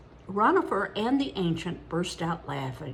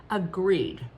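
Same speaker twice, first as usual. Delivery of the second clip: solemn; 4 dB louder than usual. A narrator's reading. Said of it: "Ronifer said solemnly".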